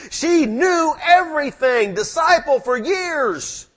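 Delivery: high and loud, slowing on the last words; incredulous. Real, not acted. Preacher telling the congregation Mary should have known him, high and incredulous. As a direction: stress how unbelievable it is. Preacher marvels at Mary's blindness.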